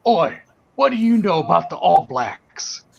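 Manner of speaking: lightly voiced challenge from a big bouncer. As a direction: mildly imitate a doorman sizing someone up. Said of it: "this big dude".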